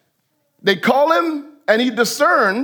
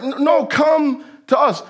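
mock insistent refusal; 6 semitones higher than usual. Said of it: "But no, they're like".

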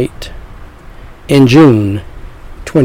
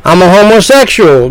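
doubting sinner voice; 5 semitones higher than usual. Pretend.

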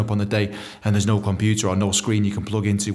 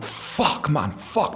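panic; 3 semitones higher, 3 dB quieter, much slower than usual. Retold or imitated. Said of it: "straight away I'm like".

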